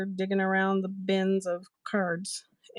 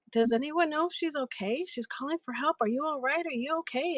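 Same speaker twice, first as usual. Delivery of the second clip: worried; 6 semitones higher than usual. Retold or imitated. Worried seller repeats her concern.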